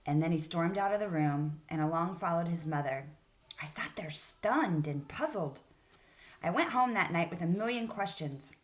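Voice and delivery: put-on storytelling voice for kids; story read aloud. Teacher reading the story aloud to her class.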